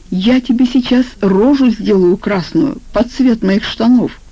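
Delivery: a mild yell, slowing on the last words; restrained acted yell. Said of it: "заорал Валера". (сдержанно изображённый ор)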